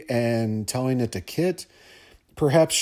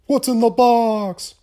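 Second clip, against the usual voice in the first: "What's in the box?" yelled much higher and louder, slowed; anguished movie scream; 11 semitones higher, 5 dB louder, slower than usual. Shown as a demonstration. Host hams up the Seven finale for listeners, anguished slow scream. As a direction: bellow it like the desperate detective in Seven. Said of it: "Had to do it, sorry".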